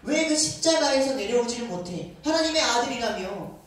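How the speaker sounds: mocking taunt. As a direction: taunt him, daring him to come down. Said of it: "예수님이 조롱하기 시작해요".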